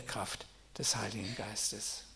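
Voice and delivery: slow, hushed whisper. Acted. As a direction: breathe the answer out like a secret. Whispered climax. (langsam geflüstert)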